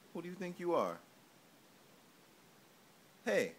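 loud, high mock gangster threat; mock tough guy. Playfully threatening the baby like a mob tough. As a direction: play-act a tough guy menacing the baby.

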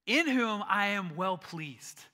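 stately divine pronouncement with long pauses; booming God's voice. Acted. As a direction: declare it grandly, word by word. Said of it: "and then he goes on".

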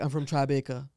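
lightly put-on Trinidadian accent; a hint of Trinidadian accent; imitated Trinidadian accent. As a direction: mimic a character's island accent. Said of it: "trying to do this guy's accent".

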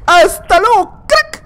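high, loud taunting goodbye; mocking farewell. Real, not acted. Gamer taunting the player he just beat, loud mock farewell. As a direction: rub it in with a cheery send-off.

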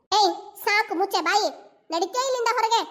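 furious command to get out; angry scolding. Acted. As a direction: throw her out with a shout. Scolding woman to leave.

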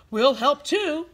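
a hint of slow, purring cat; cats offering help. A narrator's reading. Cats offering to help, lightly voiced and slow. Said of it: "said the cats".

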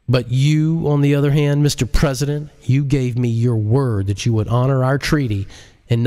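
lightly voiced hacker losing his patience; stern J L. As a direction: lay down the law to the president. J L confronting the president.

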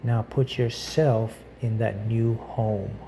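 measured guided visualization with long pauses; unhurried meditation guide. Acted. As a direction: lightly guide the listener through each image, pausing between phrases.

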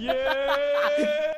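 long, high, very loud yell; yelled cheer. Acted. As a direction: belt out a drawn-out cheer. Mimicked drawn-out cheer.

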